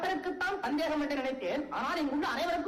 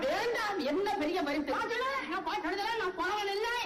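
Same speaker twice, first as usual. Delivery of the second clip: higher-pitched, huffy disowning; flustered refusal; 4 semitones higher than usual. Acted. Challenged poet gives up his prize, flustered and huffy. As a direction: throw the prize back in a fluster.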